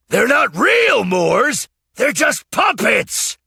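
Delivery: loud, high, slow panicked plea; desperate cry. A narrator's reading. Puppeteer pleading with the knight, loud desperate cry. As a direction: beg him to stop, frantic. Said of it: "Master Peter cried".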